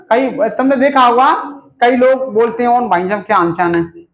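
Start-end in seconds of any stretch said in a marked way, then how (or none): 2.7-4.0 lower-pitched mock nasal voice; nasal talker. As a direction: imitate someone talking through the nose. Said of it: "ऐसे बोलते हैं, नाक से बोलते हैं".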